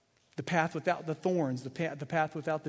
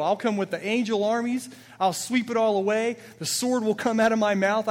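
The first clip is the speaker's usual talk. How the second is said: raised, eager voice offering to go; earnest, raised heroic plea; fervent plea; 3 semitones higher, 4 dB louder than usual. Acted. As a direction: plead boldly to a father to be sent. Jesus voiced pleading to the Father.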